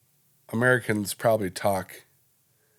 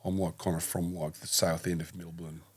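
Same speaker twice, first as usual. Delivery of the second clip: low-key put-on Australian accent, trailing softer; half-hearted Australian, getting quieter; 4 semitones lower, 4 dB quieter than usual. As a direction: loose attempt at an Australian accent. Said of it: "Is that Australian?".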